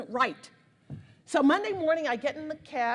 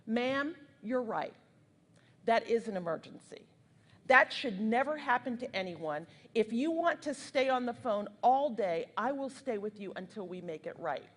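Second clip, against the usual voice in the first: put-on Southern accent. Lyft dispatcher siding with an upset caller, light Southern accent. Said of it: "he's got a deep Southern accent".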